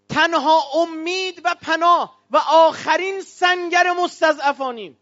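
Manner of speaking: slow, drawn-out call to the crowd; slow rousing cry. Real, not acted. Preacher rallying the crowd, a slow rousing cry. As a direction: stretch each word like a rallying cry.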